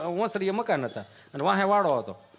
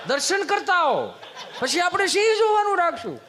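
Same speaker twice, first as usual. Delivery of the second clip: rising teasing excitement; 8 semitones higher than usual. Retold or imitated. Teasing the guests about the new puppies, building to a laughing shout.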